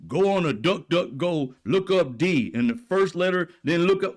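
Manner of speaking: a hint of a dopey conspiracy fan; mocking MAGA believers reading out codes. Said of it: "talking about some scary creature".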